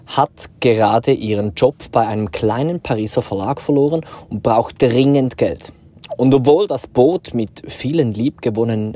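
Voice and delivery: theatrical blurb read in stage German; crisp stage german. Acted. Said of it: "Bühnendeutsch und, äh, Theaterle gsi". (theatralisches Bühnendeutsch)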